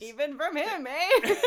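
loud, high mock quote through giggles; hammed-up repeat of a Canadian-style "eh"; laughing Gollum imitation. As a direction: mimic the line while cracking up. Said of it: "He just is like".

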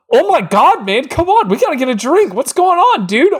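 put-on high, gushing welcome to an old friend; excited greeting. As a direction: greet him like a long-lost buddy. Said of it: "you would be excited".

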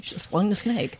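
whispered aside. Real, not acted. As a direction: whisper it under the breath. Repeated as aside.

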